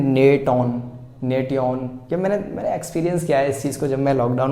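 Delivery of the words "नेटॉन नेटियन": imitating a child misreading "नेटॉन", "नेटियन"; mock mistake. Teacher imitating children's misreading of nation. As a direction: sound out "नेटियन" wrongly like a struggling child. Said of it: "बच्चे क्या पढ़ने की कोशिश करते हैं".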